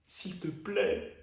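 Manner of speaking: drawn-out, soft pleading; slow soft plea. Acted. Begging Eva again, slow and soft.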